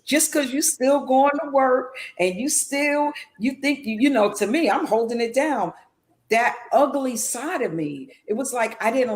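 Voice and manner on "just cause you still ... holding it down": tempting inner voice. Retold or imitated. The addiction's voice urging her on, coaxing and higher. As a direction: egg her on like a sly friend. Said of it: "it just kept coming back saying".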